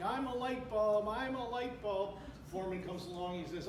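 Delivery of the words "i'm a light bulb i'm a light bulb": drawn-out, higher-pitched mock yell. Worker faking madness to get sent home, mock yelling. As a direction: call it out slowly, without full volume. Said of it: "and he's yelling".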